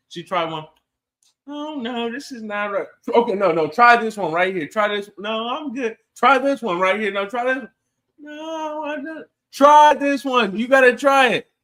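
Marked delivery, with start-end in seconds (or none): 1.5-2.9 high, squeamish refusal; high disgusted reaction. Retold or imitated. Lady reacts to fudge. 3.1-11.5 loud, high pushy urging; pushy insisting. Retold or imitated. Peer pressuring lady to taste.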